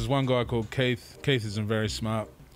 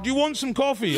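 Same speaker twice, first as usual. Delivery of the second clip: clueless offer; 12 semitones higher than usual. Retold or imitated. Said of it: "And he's just like".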